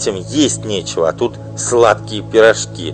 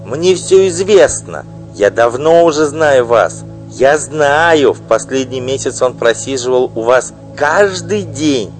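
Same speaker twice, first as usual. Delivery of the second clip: loud, high, bitter tirade; furious wife; 9 semitones higher, 9 dB louder than usual. Acted. Wife denouncing her husband's mistress, furious loud outburst. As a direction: spit out the insults at her rival.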